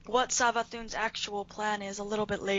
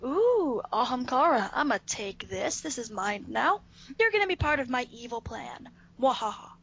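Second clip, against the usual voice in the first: greedy cartoon villain, ending in a mwahaha; sneering panto villain. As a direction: ham up a gloating baddie. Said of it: "Savathun is like".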